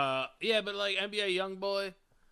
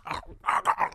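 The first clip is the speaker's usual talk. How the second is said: breathy mock stab grunts; 8 dB louder than usual. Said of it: "they're like".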